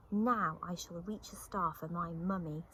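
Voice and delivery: put-on mildly delighted child bear; happily. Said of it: "said Little Brown Bear happily".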